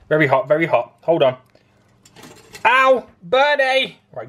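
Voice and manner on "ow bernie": high, slow pained cry; real pain yelp. Real, not acted. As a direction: yelp from a burned finger. Burned fingers on hot crumpet.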